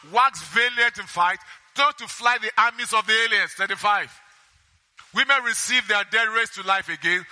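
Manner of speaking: steady Bible reading voice; preacher reading Hebrews aloud; scripture reading. Acted. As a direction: read the verses out to the congregation.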